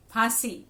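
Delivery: aspirated ph in phansi, no f; correct "phansi". Shown as a demonstration. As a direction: say phansi carefully with a puffed p. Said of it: "जो सही उच्चारण है इन शब्दों का".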